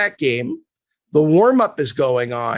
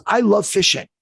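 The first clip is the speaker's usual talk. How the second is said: quoted through laughter, higher; laughing while quoting; 6 semitones higher than usual. Retold or imitated. The agent laughing as he imitates Zdeno on fishing. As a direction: giggle out the love of fishing.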